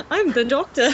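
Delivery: put-on British accent; English accent. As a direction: speak in an assumed English accent. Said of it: "heard me speak with an English accent".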